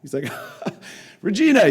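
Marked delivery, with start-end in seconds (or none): 0.4-0.9 soft mocking laugh, put on; short, quiet scoffing chuckle; imitated laugh. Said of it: "he just started laughing". 1.2-1.7 high, loud imitated call; acted shout across the house. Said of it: "he called my mom over".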